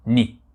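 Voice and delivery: "ni" set apart, said as nee; Japanese pronunciation. Shown as a demonstration. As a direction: model the Japanese word "ni" on its own. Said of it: "ni c'est la prononciation hiragana".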